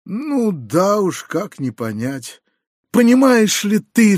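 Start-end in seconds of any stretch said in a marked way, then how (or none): 2.9-4.2 higher, louder cry of despair; desperate cry. A narrator's reading. Uncle crying out in despair to his nephew, loud desperate plea. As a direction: plead out in despair, rising. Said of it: "вскричал он в отчаянии".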